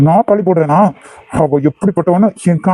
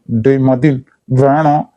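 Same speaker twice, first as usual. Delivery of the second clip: low warning; 6 semitones lower, much slower than usual. Acted. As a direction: hold the voice down and let the threat sit in it. Groom threatens his friend.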